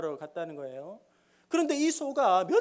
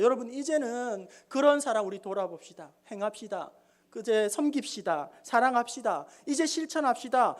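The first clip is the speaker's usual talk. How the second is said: mock preacher. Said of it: "이렇게 설교에서".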